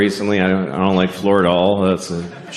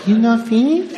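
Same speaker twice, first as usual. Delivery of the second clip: put-on high, subtle Japanese-accented question; waitress's accent, done subtly; 13 semitones higher than usual. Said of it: "No, it was subtle".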